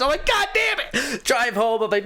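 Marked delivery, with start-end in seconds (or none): 0.3-1.2 high exasperated curse; frustrated curse. Retold or imitated. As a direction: spit out the curse.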